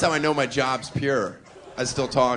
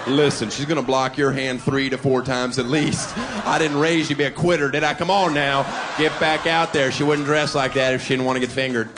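louder coaching dad; pep-talking dad; 3 dB louder than usual. Retold or imitated. Father coaching his son, louder pep-talk. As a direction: push him like a coach. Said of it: "a father should give his son that version".

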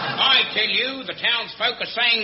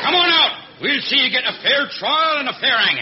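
shouting; 6 semitones higher, 6 dB louder than usual. Acted. Calling at hidden bushranger.

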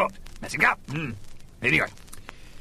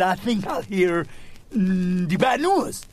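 patient voice; 4 semitones higher, slower than usual. Acted. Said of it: "He said".

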